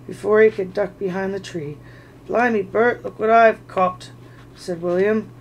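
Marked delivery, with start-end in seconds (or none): 2.3-4.1 loud pleased troll call. Acted. William to Bert, a loud pleased troll call. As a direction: show off your catch, loud and pleased.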